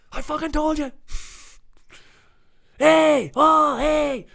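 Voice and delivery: imitating a furious outburst; mock French meltdown. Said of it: "screams like proper French meltdown".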